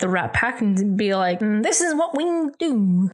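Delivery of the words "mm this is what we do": lightly voiced old Hollywood crooner; old-timey voice. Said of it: "that's my fucking old-timey voice".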